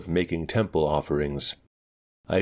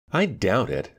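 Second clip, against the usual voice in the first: sharp; 4 semitones higher than usual. Acted. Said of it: "I said rather sharply".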